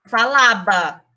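Spanish pronunciation, b sound in falaba. Shown as a demonstration. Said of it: "eu vou falar".

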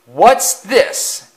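high, loud, far-off indignant voice; hissed outrage. A narrator's reading. Afton seeing the old coaches, hissing in outrage. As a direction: spit it out in disgust. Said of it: "he hissed".

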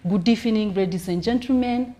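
measured comedian's opening greeting; stage greeting. Shown as a demonstration. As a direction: greet the audience to settle your nerves. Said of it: "that is me calming down".

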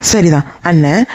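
slow, deliberate சரிதான் with a rise; slow teacherly confirmation. Acted. Aunt slowly confirms the kinship answer to niece.

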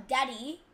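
Daddy with a light, soft middle d; soft Australian pronunciation. Shown as a demonstration. Gamer showing how Australians just say it, soft-d Daddy. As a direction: say Daddy easily, middle d barely tapped. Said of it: "they just say it".

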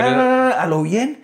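high, loud mock street talk; loud, hammed-up ñero slang; present-day ñero. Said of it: "cómo habla el ñero de hoy".

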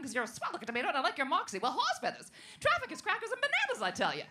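lightly voiced 1940s femme fatale; a hint of old-movie dame talk. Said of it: "sounds like a femme fatale from the nineteen forties".

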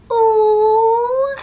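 high, loud burst of delighted surprise; sudden squeal of wonder; surprised ooh. Real, not acted. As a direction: gasp it out as the card jumps. Sudden card jumps out.

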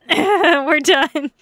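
loud, drawn-out cheer; jubilant cry. Real, not acted. Streamer announcing they are done, jubilant. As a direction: shout it out in relief with a laugh. Celebrating being finished.

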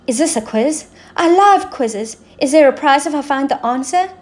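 a lightly voiced, eager Queen. Quarrelsome Queen hoping for a prize, lightly voiced eager queen. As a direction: sound thrilled about a quiz. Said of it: "asked the Queen".

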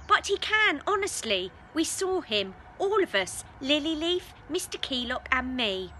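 loud, high pleading insistence; insistent. Pretend. Mary insisting to her doubting parents, loud and high. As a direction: insist hard that it is true.

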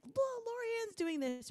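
high, slow mocking relative voice; imitating relatives. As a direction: needle her with a comparison. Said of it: "everybody else would be like".

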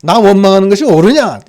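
a firm reproof from God; stern question to angry Jonah; God scolding Jonah, firm; rebuke. Acted. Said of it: "책망하시는 거예요".

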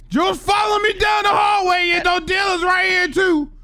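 shouted warning to a friend; calling out. Real, not acted. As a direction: yell it down the hall. Fleeing players in game, calling out.

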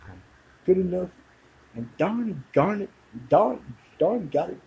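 a sweet self-help mantra, lifted high; Stuart Smalley impression. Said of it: "used to do Stuart, Stuart Smalley".

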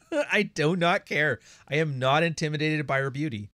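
imitating a man who just found his confidence; suddenly confident. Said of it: "His entire demeanor changed".

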